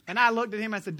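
normal talking voice

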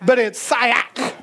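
"Sayak" said slowly in a southern drawl; southern Hebrew. Shown as a demonstration. Preacher sounding out the Hebrew word "Sayak", slow. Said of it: "a southerner pronouncing Hebrew".

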